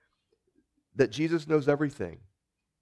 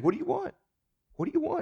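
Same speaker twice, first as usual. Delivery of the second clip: much higher, eager asking; eager question; 14 semitones higher, 4 dB quieter, much faster than usual. Retold or imitated. Jesus asking the blind man, high and eager. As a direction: lift it up high, keen to know. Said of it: "Jesus is just saying".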